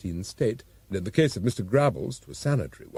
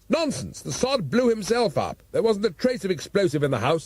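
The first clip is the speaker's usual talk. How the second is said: raised, blustering police chief; gruff Commissioner; 7 semitones higher than usual. A narrator's reading. Commissioner scoffing at his assistant, blustering. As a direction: bluster like an exasperated top cop.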